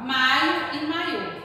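slow MAio against maiÔ, each word drawn out; contrasting stress. Shown as a demonstration. Teacher contrasting two words for children, stressing each differently. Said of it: "Só colocar o acento. Já dá outro tom".

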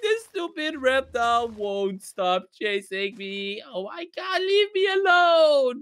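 plaintive, drawn-out complaint; slow wail of self-pity, rising at the end; sad. Acted. Player begging the reptile to stop chasing, sad. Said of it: "look at how sad he sounds".

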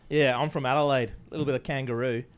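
amateur put-on Australian accent. Shown as a demonstration. Second try at it for friends, put-on Australian accent. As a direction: lean into a jokey Australian cadence. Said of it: "You do a good Australian accent".

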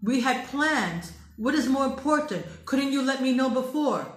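scolding him lightly for breaking the date; mock angry demand. Woman confronting boyfriend about a broken date, mildly angry. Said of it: "When he breaks a date".

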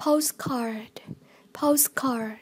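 "Postcard" stressed on POST; stress on first syllable. Shown as a demonstration. Teacher modelling vocabulary for learners, "Postcard" stressed on POST. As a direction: put the weight on POST in "Postcard". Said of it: "nhấn âm một".

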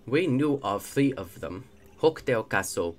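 put-on second go at an invented X-Naut accent; loosely held made-up villain accent; retried made-up accent. X-Naut reports known star locations, retried made-up accent. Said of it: "Let's try this again, shall we?".

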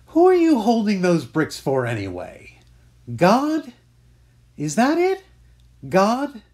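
loud, high, sneering challenge; angry mocking rant. Scene: a man mocks another for carrying guilt for God, loud and sneering. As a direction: jeer at faith in God, loud.

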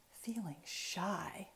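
soft, slow breathy whisper; shy whisper. Acted. Reading the shy moment to kids, whispered softly. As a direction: let the shyness drop to a whisper.

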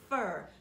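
"fur" said firmly as a stressed syllable; "fur" isolated and emphasized. Shown as a demonstration. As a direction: land hard on "fur". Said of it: "Did we stress it?".

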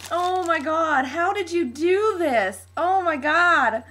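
gushing, stretched-out amazement; really freaking out. Real, not acted. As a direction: gush in overwhelmed disbelief. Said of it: "I'm, like, freaking out".

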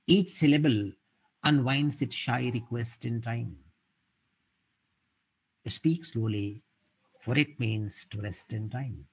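slow, measured reading of the couplet; poem recital. Shown as a demonstration. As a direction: let each line of verse breathe. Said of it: "which is from Kelly Lefebvre. She says". (slow reading of a ghazal couplet)

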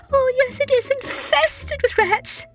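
high, slow tearful lament; mother cat tearfully complaining to her cousin, high and slow. Acted. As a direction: wail it through tears. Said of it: "said Tabitha tearfully".

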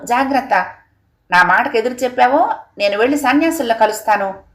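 mild mock rant of a stern father; an angry father laying down the law, understated. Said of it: "కోపంగా ... ఆవేశంగా అరుస్తూ".

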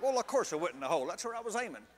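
quick, offhand brag; mock cocky. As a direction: toss it off as if it was planned. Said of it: "I strutted up to that green like".

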